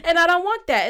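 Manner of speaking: high, loud laughter into words; laughing. Real, not acted. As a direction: laugh through the line. Laughing at own remark.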